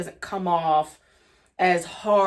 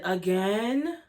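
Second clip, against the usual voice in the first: mocking "again". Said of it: "Malaysia said".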